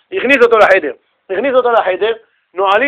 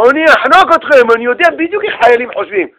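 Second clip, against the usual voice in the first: loud, raised mock threat; hammed-up sergeant's threat; threatening sergeant; 6 semitones higher, 5 dB louder than usual. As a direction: play a mean army sergeant. Nasty sergeant threatening soldiers, acted.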